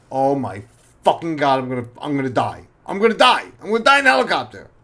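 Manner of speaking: building alarm until it cracks upward; panicking. Retold or imitated. Cop in a banking helicopter, climbing panic.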